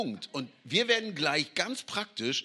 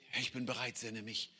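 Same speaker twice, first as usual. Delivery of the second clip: humble, hushed answer; 5 semitones lower, 9 dB quieter than usual. Retold or imitated. Isaiah answering God humbly.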